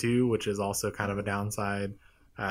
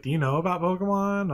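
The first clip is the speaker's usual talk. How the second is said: lightly voiced game character, higher pitch; professor's daughter; 7 semitones higher than usual. Professor's daughter quizzing the player, lightly imitated in higher pitch. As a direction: ask it as a higher-pitched quiz question. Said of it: "She was like".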